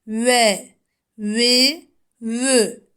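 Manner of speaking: "Ve, vi, vü" with the lips pushed forward and rounded. Shown as a demonstration. Teacher shows students the Vav with rounded lips. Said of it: "dudaklarımızı öne doğru topluyoruz".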